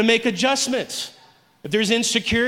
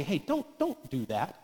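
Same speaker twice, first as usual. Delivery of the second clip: hushed, low, gentle inner voice; soft, low murmured correction; still small voice; 7 semitones lower, 10 dB quieter than usual. Acted. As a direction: speak very softly, a quiet check from inside. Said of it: "that still small voice say".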